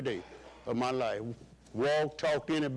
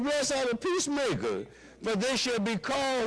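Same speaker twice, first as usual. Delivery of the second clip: restarted higher; 7 semitones higher than usual. Shown as a demonstration. Preacher restarting the verse for the congregation, pitched high. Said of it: "uh-oh".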